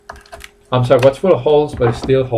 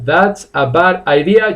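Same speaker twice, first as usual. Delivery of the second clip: slow model sentence; 3 semitones higher than usual. Shown as a demonstration. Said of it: "you don't need the second "a".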